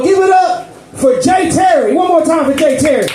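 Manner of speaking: hype announcement. Real, not acted. Host calling out act.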